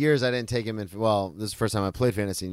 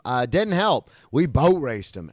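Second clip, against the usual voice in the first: gleeful loud boast; 3 semitones higher, 5 dB louder, slower than usual. Real, not acted.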